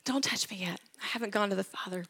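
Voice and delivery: whispered "Don't touch me yet", breathy and soft. Retold or imitated. Jesus gently stopping Mary's embrace, soft whisper. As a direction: hold her off in a hush. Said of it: "imagining her lunging toward him".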